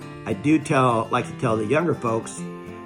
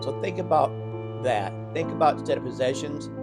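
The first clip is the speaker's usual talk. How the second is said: soft, calm and sincere words; gentle reflective advice; 6 dB quieter than usual. Acted. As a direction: ease into a quiet, tender reflection. Reflective talk over music.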